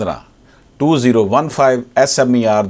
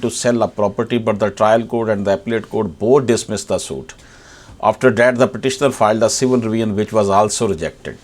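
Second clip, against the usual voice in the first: slow formal reading; much slower than usual. Acted. Reads English case summary aloud.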